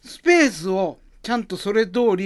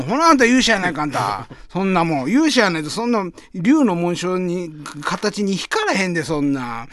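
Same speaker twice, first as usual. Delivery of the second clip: loud nosy osaka auntie. Acted. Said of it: "始まりの街というネタ".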